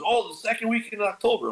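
high, breezy imitation of dad; casual dad. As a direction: toss it off like it's nothing. Voicing his dad casually.

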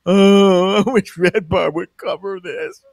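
a light put-on fan voice with a laugh; mock fan whine. Mocking abandoned fans in the chat, light put-on voice. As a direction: play a pitiful fan, lightly.

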